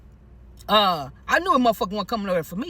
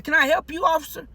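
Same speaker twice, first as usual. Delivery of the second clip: higher-pitched, pointed question; wary polite challenge; 7 semitones higher than usual. Retold or imitated. Resident to the cop at the door, high-pitched polite challenge. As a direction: put it to the officer in a raised pitch.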